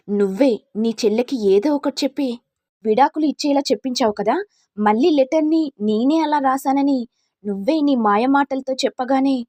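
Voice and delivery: furious mother-in-law berating the schemer; angry scolding. Acted. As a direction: tear into her for ruining her sister. Mother-in-law confronts scheming daughter-in-law.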